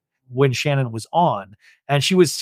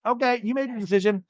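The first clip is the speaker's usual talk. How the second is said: high, mock-dismissive Alexis voice; 9 semitones higher than usual. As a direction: toss it off like a brushed-off host.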